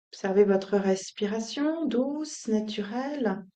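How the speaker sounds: calm, unhurried instructions with long pauses; soothing yoga-teacher guidance; guided meditation. Acted. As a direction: settle them gently into stillness.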